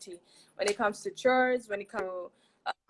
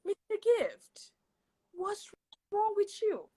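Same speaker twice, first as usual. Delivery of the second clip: mock exasperation; 10 semitones higher than usual. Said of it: "it's like".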